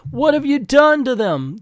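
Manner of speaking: high alarmed question; alarmed cry. Acted. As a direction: gasp it out in shock. Claire shocked at the blast.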